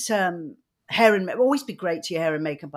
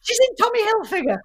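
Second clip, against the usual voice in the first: mock excited announcer; 14 semitones higher, faster than usual. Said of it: "And I was like".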